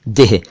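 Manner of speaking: "देह" as a quick deh, audible h; clipped e before the h in "देह"; short vowel. Shown as a demonstration. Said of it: "ए को कम खींचना है".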